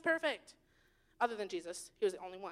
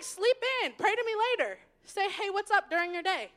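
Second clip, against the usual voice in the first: easygoing God; 4 semitones higher than usual. Acted. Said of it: "he's like".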